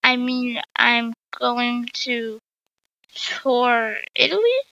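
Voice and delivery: slow, hesitant cover story; a touch of a weak excuse, slowly; mildly unsure fib; unconvincing. Acted. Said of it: "she said unconvincingly".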